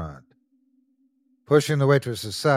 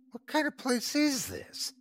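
shouted; 14 semitones higher, 7 dB quieter than usual. Acted. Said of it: "Kent shouted".

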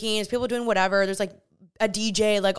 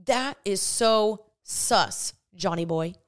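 drawn-out suspicion; much slower than usual. Retold or imitated. Mock accusation of John.

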